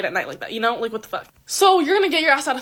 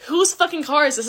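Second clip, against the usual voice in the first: mock jealous outburst; 3 semitones higher, 4 dB louder than usual. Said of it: "he's gonna think".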